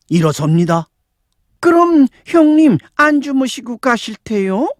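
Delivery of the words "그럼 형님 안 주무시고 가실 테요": high-pitched woman's question; younger woman's voice. A narrator's reading. Younger woman asks the departing elder sister, high voice. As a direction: put on a high female voice, asking.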